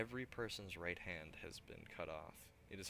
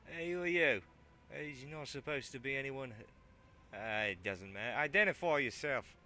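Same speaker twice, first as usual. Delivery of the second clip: loud, high bark at an intruder; barking challenge; 6 semitones higher, 10 dB louder than usual. Acted. Big man barks at the newcomer, loud high challenge. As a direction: bark it out like a suspicious guard. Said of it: "barks out".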